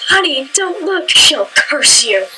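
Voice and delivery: lightly acted protective mother, starting high; mock-dramatic warning to a child, slowing at the end; a hint of a horrified mom; alarmed mom. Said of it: "let out this giant dramatic gasp".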